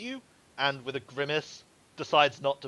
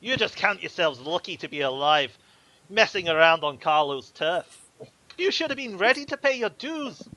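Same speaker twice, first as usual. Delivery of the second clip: higher, loud sneering warning; smirking threat; 4 semitones higher, 6 dB louder than usual. Acted. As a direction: sneer at them while he warns them. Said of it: "he smirks and goes".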